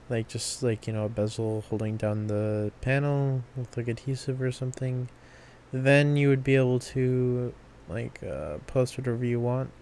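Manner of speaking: drowsy, drifting off mid-sentence; half asleep, words trailing away; nodding off. Real, not acted. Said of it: "I am, like, falling asleep as I'm talking".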